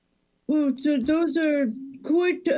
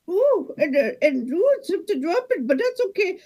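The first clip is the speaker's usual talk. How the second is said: higher distracted Wisconsin cashier; bird nest on head; 4 semitones higher than usual. Cashier distracted by a bird on her head, pitched up. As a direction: keep bagging while something nests on you. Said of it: "bird making a nest on your head".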